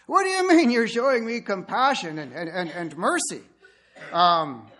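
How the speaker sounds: loud indignant bride; exasperated bride. Acted. Unhappy bride at the altar, loud and exasperated. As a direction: throw his words back at him, exasperated. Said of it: "she's not happy at this wedding".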